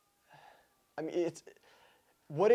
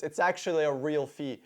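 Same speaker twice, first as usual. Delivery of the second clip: mocking repeat; 3 semitones lower than usual. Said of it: "I am so glad he said this".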